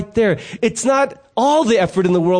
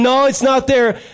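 higher-pitched mock protest; stubborn denial; 5 semitones higher, 4 dB louder than usual. Husband looks in one spot only, stubbornly protesting. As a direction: insist like a baffled husband. Acted husband insisting at the refrigerator.

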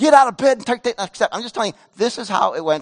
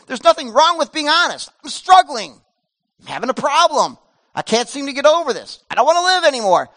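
pleading confession; 6 semitones higher, 4 dB louder than usual. Acted. Voicing honest struggle in depression.

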